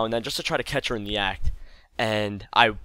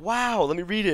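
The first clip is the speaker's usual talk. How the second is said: high-pitched imitated mom's wow; put-on amazement; mom feigning surprise; 10 semitones higher than usual. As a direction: act as if it's all news to you. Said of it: "like she didn't know".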